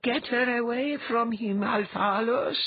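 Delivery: high, commanding voice inside the head; crackling goddess voice. A narrator's reading. Dwea speaks inside Althalos's mind, crackling command. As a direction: order him from inside his mind, pitched high. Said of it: "Dwea's voice crackled inside his mind".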